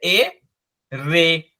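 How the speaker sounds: very slow, letter by letter; slow spelling out. Shown as a demonstration. Teacher spelling the letters out for students, very slowly. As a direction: spell एर and ए out deliberately for beginners. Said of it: "तो ये क्या हो गया?".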